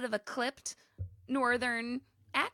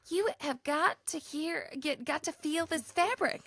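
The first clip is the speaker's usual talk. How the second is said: slow, higher imitating Oklahoma twang; southern accent; 6 semitones higher, 3 dB quieter, slower than usual. Telling friends about new fabric, slow mock Oklahoma accent. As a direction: drawl it out like an excited Oklahoman. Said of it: "She goes".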